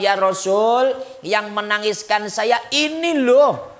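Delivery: high, loud tired lament of an exhausted daughter; weary complaint. Retold or imitated. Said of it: "Lalu menjawab". (keluhan lelah dengan suara tinggi dan keras)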